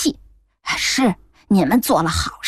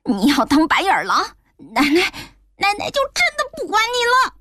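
angry scolding; 7 semitones higher than usual. A narrator's reading. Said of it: "大声说".

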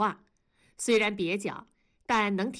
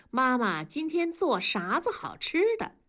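Sichuan dialect; 5 semitones higher than usual. Acted. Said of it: "用一口四川话问".

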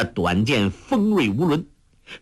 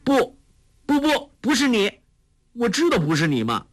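much higher, fast and urgent; anxious protest; 13 semitones higher than usual. Acted. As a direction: hurry the denial out. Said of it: "黄蓉急道".

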